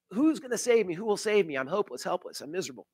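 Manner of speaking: a mock plea that fades to a hush; cry of desperation. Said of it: "he has a cry of desperation".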